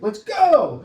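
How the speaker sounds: loud, high-pitched acted yell; imitated parental yell, pitch shooting up; yelling at kids. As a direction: holler like a parent rushing kids to school. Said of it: "yelling at my kids in the morning".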